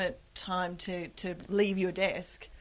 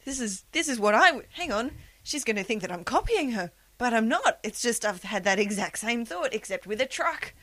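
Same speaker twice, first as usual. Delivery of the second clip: mock panic; 3 semitones higher, 4 dB louder than usual. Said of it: "I just thought".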